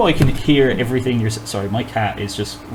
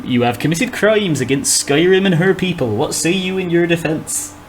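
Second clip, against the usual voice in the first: guard arrest line; 4 semitones higher than usual. Acted. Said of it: "It's the guard arrest line".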